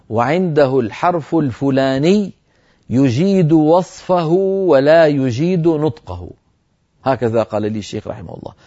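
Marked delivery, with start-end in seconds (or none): 0.1-6.3 slow, deliberate, word by word; dictation pace. Shown as a demonstration. Teacher dictates the certificate wording to the students. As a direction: dictate it slowly so they can write it down. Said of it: "اسمعوا العبارة واكتبوها".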